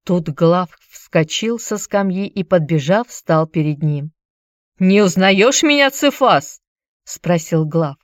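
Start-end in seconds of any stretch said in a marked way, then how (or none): 4.8-6.6 a louder, threatening challenge; menacing. Acted. Glaucus confronts the traitor who sold his family, menacing. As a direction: confront him with a grim threat. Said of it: "голос его прозвучал так грозно".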